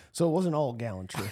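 put-on wry historian's sign-off in a Southern accent; Shelby Foote. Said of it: "And then Shelby goes".

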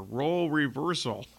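"Role reversal" slowed down, each word distinct. Shown as a demonstration. Host retrying a tongue-tripping phrase, "Role reversal" said slowly and carefully. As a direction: take your time over "Role reversal". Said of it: "I need to say that slower".

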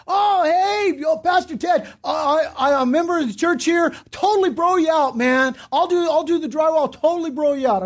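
high, hearty mock greeting; eager church member. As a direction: imitate an over-friendly contractor pitching a deal. Eager church members offering deals.

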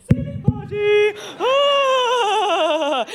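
high, loud hammed-up self-scold ending in a shout; mock scolding. Comedian scolding Ireland in a mock high cry. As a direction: tut at the country like a fond aunt.

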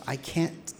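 soft, hushed thought; soft panicked inner voice; inner voice, quiet. Retold or imitated. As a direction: whisper it to yourself in panic. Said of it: "I'm thinking to myself".

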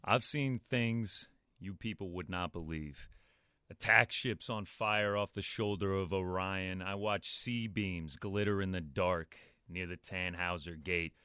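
soothing film monologue. Acted. Announcer reads a film's last line for contestants, soothing. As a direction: soothe the listener, slowing and softening on the last words. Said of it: "I was distracted by the soothing voice".

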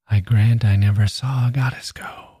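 the line in one unbroken breath, fading breathless at "go"; all one breath. Shown as a demonstration. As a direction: let it float out without a break to "go". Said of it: "All one breath".

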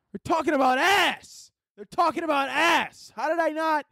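high, slow shocked realization; sudden realization. Retold or imitated. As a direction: gasp it out as the penny drops. Sudden realization while driving.

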